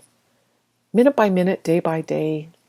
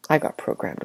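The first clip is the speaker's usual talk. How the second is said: whispered confession; 3 semitones lower, 6 dB quieter than usual. Shown as a demonstration. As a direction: drop to a soft whisper on I got programmed. Repeated phrase, varied delivery.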